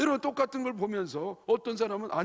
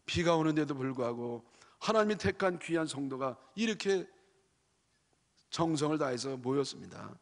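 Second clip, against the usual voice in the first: hopeful prayer leader. Retold or imitated. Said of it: "그러지 말고".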